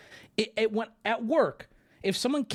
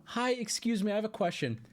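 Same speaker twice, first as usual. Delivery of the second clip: friendly greeting; 4 semitones higher, 5 dB quieter than usual. Retold or imitated. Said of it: "big smile on my face".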